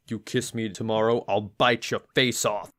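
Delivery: lightly voiced deep, gruff little fox; a hint of a deep, gruff growl. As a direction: do a mild gruff tough-guy threat. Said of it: "in a very deep, gruff voice says".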